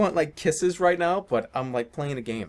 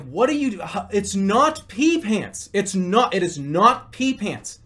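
louder, slow insistent objection; arguing; 3 semitones higher, 5 dB louder, slower than usual. Retold or imitated. Arguing with his friend about the password, slow and loud. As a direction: spell out your disbelief, word by word. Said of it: "And I'm like".

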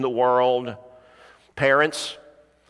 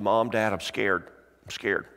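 small, hushed, lower voice; scared child; 4 semitones lower, 4 dB quieter than usual. Retold or imitated. Girl to her parents at bedtime, mildly scared. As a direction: quietly confess a fear, imitating a child.

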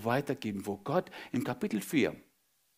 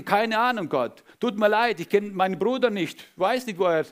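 defiant denial; 4 semitones higher, 4 dB louder than usual. Acted. Cain denies to God.

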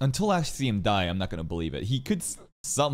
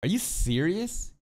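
shocked; 5 semitones higher than usual. Real, not acted. Reacting to the knight's chivalry excuse.

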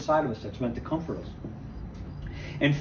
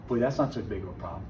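relieved aside; 9 semitones lower, 7 dB quieter than usual. Retold or imitated. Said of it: "you're like".

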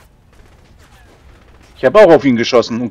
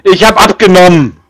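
laughing protest; 4 semitones higher, 4 dB louder than usual. Real, not acted.

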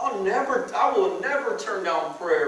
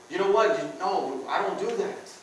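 resolute Christian man; 4 semitones higher than usual. Retold or imitated. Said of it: "that are gonna say".

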